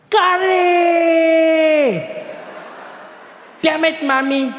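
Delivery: put-on high childish shout of despair; small boy wailing at his curry lunchbox; screaming kid. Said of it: "he'd scream at the top of his lungs".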